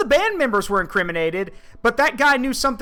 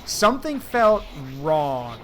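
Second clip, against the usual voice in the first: ominous quote; 4 semitones lower, slower than usual. Retold or imitated. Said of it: "and I quote".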